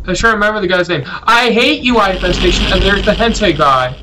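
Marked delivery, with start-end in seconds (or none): 1.1-2.7 higher, mock exasperated outburst; playful high-pitched exclamation of loathing; mock hatred. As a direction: play-act a grudge in a raised pitch.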